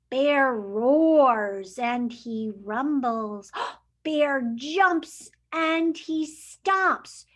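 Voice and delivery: slow, rumbling angry read; mock growling bear. Teacher reading the grumpy bear, slow mock growl. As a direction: growl out the words slowly.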